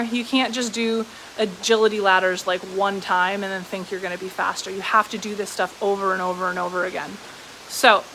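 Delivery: muffled by a shirt collar; talking into shirt. Real, not acted. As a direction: mouth pressed into fabric. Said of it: "I think I'm talking into my shirt".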